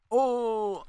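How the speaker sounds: sudden high yelp of relief; surprised cry. Real, not acted. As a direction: blurt it out, shocked.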